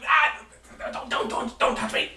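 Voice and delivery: high squeak, then hushed pleading; frightened gnome. Acted. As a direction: shrink away in terror.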